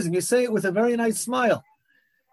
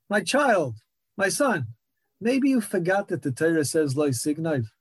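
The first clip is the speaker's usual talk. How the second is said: lightly imitated gentle reproof, a little lower toward the end; soft, gentle rebuke; 3 semitones lower than usual. Elderly rabbi to a thief with a hand on his shoulder, gently retold. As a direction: retell an elderly rabbi's tender correction with mild softness. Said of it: "put a hand on his shoulder and said softly".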